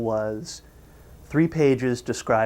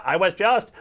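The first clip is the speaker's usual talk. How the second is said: raised, cut-off exasperation; acted anger; 6 semitones higher than usual. Squidward tries explaining over SpongeBob's screams, acted anger. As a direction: try angrily to break in. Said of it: "Squidward's getting angry".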